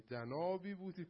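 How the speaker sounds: put-on light Isfahani accent, drawn out a little. Teacher mocking a film Pharaoh's Isfahani accent. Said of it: "با لهجه اصفهانی".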